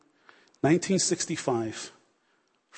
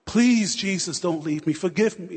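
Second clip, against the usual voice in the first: desperate cry; 3 semitones higher, slower than usual. Retold or imitated. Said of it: "she's crying and she's screaming".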